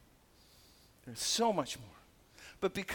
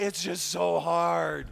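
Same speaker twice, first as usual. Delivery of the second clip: mock lament; 2 semitones lower, slower than usual. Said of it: "usually people say".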